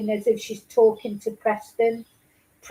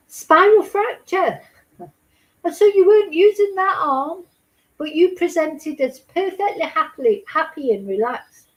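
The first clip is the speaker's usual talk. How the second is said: sketch-show narrator; 4 semitones higher, 3 dB louder than usual. Retold or imitated. Host ridiculing a social worker's report to a baby, mock sketch narrator. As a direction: overdo it like a sketch-comedy voiceover, starting loud and high. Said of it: "it's like Mark Lucas reading it out".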